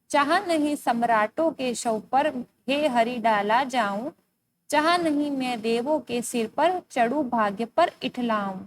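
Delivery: slow, measured verse reading; poem recitation. Acted. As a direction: recite the poem slowly, drawing out the line endings. Reads the poem aloud.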